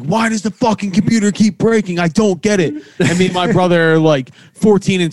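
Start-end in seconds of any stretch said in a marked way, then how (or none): 0.0-2.7 higher, mocking mom voice; mom's complaint. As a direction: whine it like a confused mom. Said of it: "My mom would always be like".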